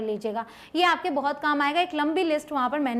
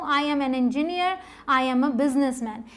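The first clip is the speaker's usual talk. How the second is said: slow model sentences; 2 semitones lower, much slower than usual. Shown as a demonstration. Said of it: "मैं एक अध्यापिका हूँ".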